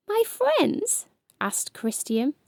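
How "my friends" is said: surprised. Acted. Surprised child question.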